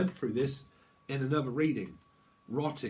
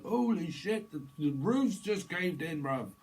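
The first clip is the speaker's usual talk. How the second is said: higher, louder shocked cry; 6 semitones higher, 3 dB louder, slower than usual. Acted. Psychic acts someone shocked the roof caved in. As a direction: gasp it out as the roof caves. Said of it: "it's like".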